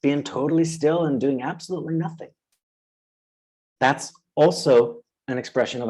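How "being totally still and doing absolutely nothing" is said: calm self voice. Pretend. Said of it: "It can just say".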